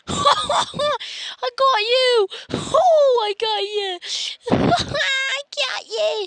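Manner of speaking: high, loud, slow gloating yell through laughter; triumphant laughing shout. Real, not acted. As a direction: crow over the prank, laughing. Gloating over a prank.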